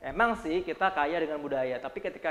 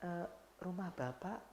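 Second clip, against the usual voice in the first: slow, soft, halting warning; too slow; 14 dB quieter, much slower than usual. Shown as a demonstration. Slow speaker telling the boss his house burns, dragging. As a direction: drag it out, no urgency at all. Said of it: "ngomongnya kelambatan".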